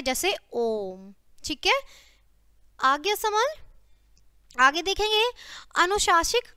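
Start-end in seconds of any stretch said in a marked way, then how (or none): 0.5-1.1 ओम with the vowel held three beats, slow; drawn-out pluta vowel. Shown as a demonstration. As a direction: stretch the ओ in ओम long, like a chant. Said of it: "इसके लिए तीन का अंक लगाया जाता है".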